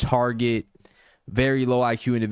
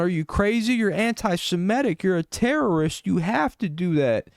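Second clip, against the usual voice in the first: a much higher, strained whiny parody voice; mocking outraged critics; 9 semitones higher than usual. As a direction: whine it like hysterical critics throwing a fit. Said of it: "They're like".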